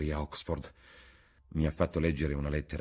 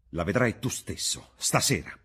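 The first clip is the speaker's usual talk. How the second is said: rising, a touch louder; exclaiming; 4 semitones higher, 4 dB louder than usual. Acted. Dorian daring Basil to see his soul, exclaiming. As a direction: fling it out as a challenge. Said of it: "esclamò afferrando una lampada".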